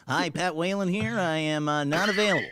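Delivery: lightly put-on voicemail greeting; a hint of a canned answering message; mock outgoing voicemail, barely changed voice; Pat Whalen voicemail. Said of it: "Do your Pat Whalen imitation of when you call".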